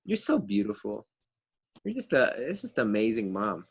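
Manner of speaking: sugary flattery, laying it on thick; butter up mom to get something; sweet-talking. Retold or imitated. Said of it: "You go up to your mom and you go".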